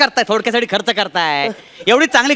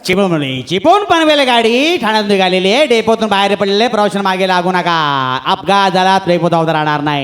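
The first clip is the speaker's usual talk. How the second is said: through a megaphone; 5 semitones lower than usual. Acted. Station announcement on the mic.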